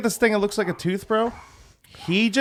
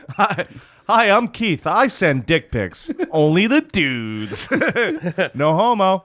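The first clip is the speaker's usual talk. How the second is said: mock confession; 5 semitones higher, slower than usual. Mocking Keith's dick-pic confession.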